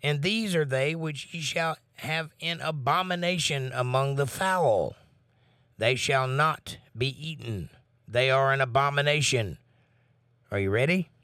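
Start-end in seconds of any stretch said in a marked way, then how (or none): 0.0-9.6 measured Bible reading voice; scripture reading. Acted. Reads scripture aloud.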